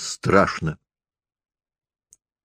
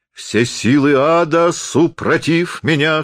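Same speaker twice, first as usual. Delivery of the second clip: hoarse cry; 6 semitones higher, slower than usual. A narrator's reading. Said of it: "хрипел он".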